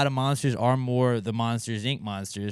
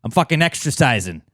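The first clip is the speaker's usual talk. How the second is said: gruff guy voice; 5 semitones higher, 6 dB louder than usual. Retold or imitated. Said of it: "he was like".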